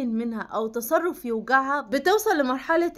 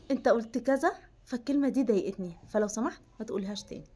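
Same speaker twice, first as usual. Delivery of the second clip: calm and composed. Shown as a demonstration. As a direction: tell him calmly, no raised voice. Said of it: "هتقولي له بكل هدوء كده".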